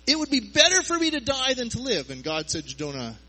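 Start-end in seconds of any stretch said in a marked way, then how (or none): 0.1-2.1 whiny cry. Retold or imitated. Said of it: "And said".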